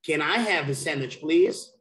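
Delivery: "Can I have a sandwich, please?" quick, rising on "please"; question intonation demo. Shown as a demonstration. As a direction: model the question for a learner, lifting "please". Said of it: "I'm gonna show you how you do it".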